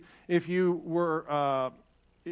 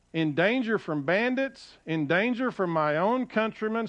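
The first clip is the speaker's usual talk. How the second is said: measured emphatic list from the pulpit; scripture reading; 3 semitones higher than usual. Acted. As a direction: read out each hardship as its own beat. Reads scripture aloud to congregation.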